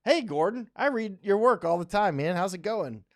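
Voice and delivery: a starstruck fan greeting his idol; excited greeting. Retold or imitated. To his viewers, recalling meeting Gordon Chang: excited greeting. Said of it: "I was like".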